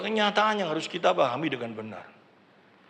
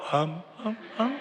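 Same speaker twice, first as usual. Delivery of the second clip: mumbled humming; 3 semitones lower, 8 dB quieter than usual. Retold or imitated. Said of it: "cuma gebek-gebek tok".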